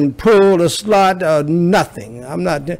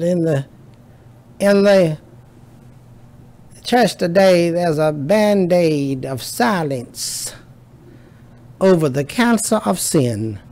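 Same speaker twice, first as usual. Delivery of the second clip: J. Vernon McGee; 3 semitones higher than usual. Retold or imitated. Quoting an old Methodist preacher, attempted Texas twang. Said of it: "He'll say it with a twang".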